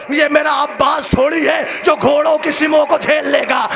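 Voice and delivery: high, loud grieving cry; a preacher shouting the lament in anguish; anguished wail. Acted. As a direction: wail the father's words at full force. Climax of the father's words.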